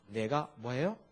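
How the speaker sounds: ordinary delivery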